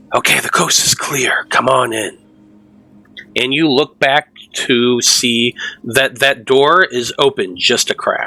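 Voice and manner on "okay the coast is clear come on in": theatrical whisper. Voicing someone behind a door who calls the player in: whispering. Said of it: "a voice whisper from behind you".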